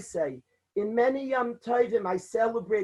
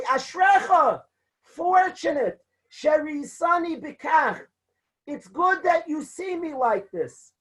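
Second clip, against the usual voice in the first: fervent reply; 3 semitones higher than usual. Retold or imitated. Rabbi answers fervently.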